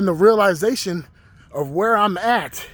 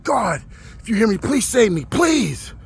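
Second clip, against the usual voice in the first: higher-pitched mock yell, rising to a final "please"; retold pleading yell; 5 semitones higher than usual. Retelling yelling at the sky to God, pleading. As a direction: act out begging the sky, pitch climbing, only partly raised volume. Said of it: "So as I'm yelling at the sky".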